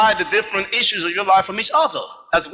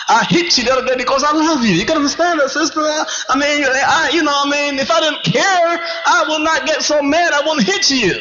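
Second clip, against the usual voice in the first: higher, quick, wheedling voice of a man excusing a slap; abusive partner excusing himself; 7 semitones higher than usual. Acted. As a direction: play the abuser talking it away, fast and pleading. Acted abuser justifying hitting.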